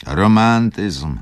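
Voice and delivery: loud, high, drawn-out cry; exclaiming. A narrator's reading. Schumann dismisses Wokulski's wishes, exclaiming loudly. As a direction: call the word out high and slow. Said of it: "zawołał Schumann".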